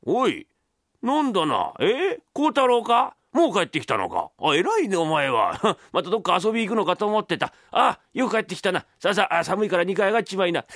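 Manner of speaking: lightly voiced father, approving; a hint of a relieved father; father of the story, pleasantly surprised. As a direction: answer as the old man welcoming his son.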